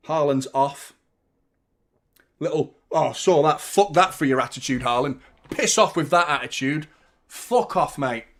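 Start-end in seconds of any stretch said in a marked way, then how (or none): 2.9-5.2 loud scolding at the player; angry rant. Real, not acted. Fan yelling at Haaland on TV, angry. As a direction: tear into the sulking striker.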